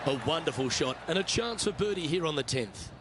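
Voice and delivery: measured TV golf call; calm play-by-play on the tenth; golf commentator. Acted. Game golf broadcast call.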